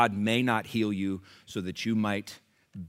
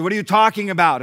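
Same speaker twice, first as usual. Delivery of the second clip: louder, higher incredulous question; retold disbelief; 9 semitones higher, 11 dB louder than usual. Friend reacting to his leukemia diagnosis, incredulous. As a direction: push back in disbelief, voice lifted.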